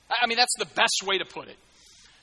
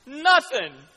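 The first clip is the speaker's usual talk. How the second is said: mock lament; 6 semitones higher, 9 dB louder, much slower than usual.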